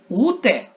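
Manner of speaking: "ude" said high and loud, the stress on u; pronunciation demo. Shown as a demonstration. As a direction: sing out "ude" high and strong. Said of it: "eu pronuncio".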